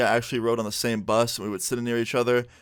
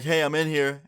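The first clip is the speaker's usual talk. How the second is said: mild mock yell, pitched higher; retold yell; 5 semitones higher than usual. Student calling through the bathroom door, mild retold yell. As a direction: call out higher without much volume. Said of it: "I just yell".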